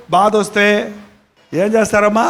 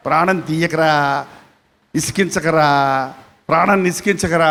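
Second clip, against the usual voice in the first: put-on pleading old mother; 5 semitones lower, 4 dB quieter than usual. Preacher voicing a mother begging her son, low and soft. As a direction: plead softly like a worn-out mother.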